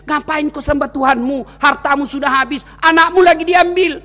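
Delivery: lightly voiced devil, high-pitched; a hint of an insistent, taunting devil; tempting devil. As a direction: needle him as the tempter. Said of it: "datang lagi iblis".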